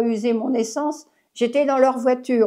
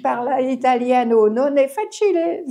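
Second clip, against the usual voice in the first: showing off her Italian. Shown as a demonstration. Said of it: "j'ai essayé de l'apprendre".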